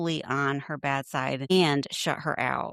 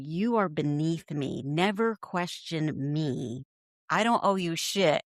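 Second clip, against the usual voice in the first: mock superiority. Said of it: "Her whole demeanor".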